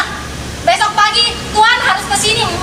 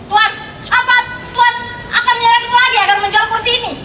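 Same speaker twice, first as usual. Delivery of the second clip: indignant protest; 4 semitones higher, faster than usual. Acted. Lady accuses the pressing buyer.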